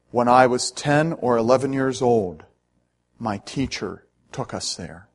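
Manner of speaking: put-on German accent, slow with long solemn pauses. Taxi driver recalls his teacher at Dachau, in a German accent. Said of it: "in a thick German accent".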